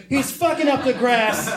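high mock-dad line broken by laughter; laughing repeat. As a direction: say "He's fucking up the grass" laughing through it. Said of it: "You remember the hoe joke".

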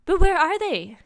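high, loud urgent question; acted panic, pitch jumping up; frantic. A narrator's reading. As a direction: demand it frantically.

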